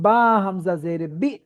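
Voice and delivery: "বা হামজা জের বি" slow, sound caught in the throat before "বি"; "বি" with a glottal catch, syllable by syllable; voice stopped at hamza. Shown as a demonstration. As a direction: stop the voice sharply in the throat on "বি", slowly. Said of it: "আওয়াজ আটকে পড়তে হয়".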